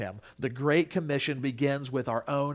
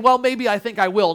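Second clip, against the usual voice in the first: begrudging; 6 semitones higher, 8 dB louder than usual. Retold or imitated. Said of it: "begrudgingly saying".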